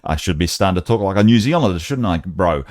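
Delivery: badly faked New Zealand accent; jokey mock Kiwi accent; dodgy New Zealand accent. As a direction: have a poor go at talking like a New Zealander. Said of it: "that's really a dodgy New Zealand accent".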